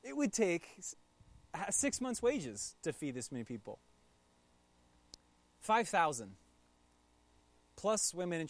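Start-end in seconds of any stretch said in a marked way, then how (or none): 0.0-3.8 high, disbelieving protest; mock outraged disciple; incredulous. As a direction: push back at an absurd plan. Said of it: "which of the disciples is like".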